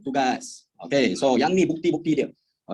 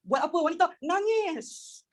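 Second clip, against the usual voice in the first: amused punchline; 11 semitones higher, 3 dB quieter, slower than usual. Acted. Joking wife cries anyway.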